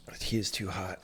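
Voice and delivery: whispered complaint to himself; whispering. Real, not acted. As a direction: breathe it out under your breath.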